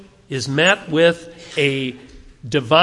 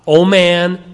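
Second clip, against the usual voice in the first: "O man" punched out loud; loud emphasis on "O man"; stress on man; 7 dB louder than usual. Shown as a demonstration. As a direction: hit "O man" hard. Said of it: "man and God are the emphasis in this".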